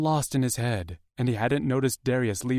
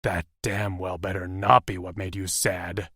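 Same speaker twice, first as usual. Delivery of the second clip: low growl; 3 semitones lower than usual. Acted. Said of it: "made a low growling sound".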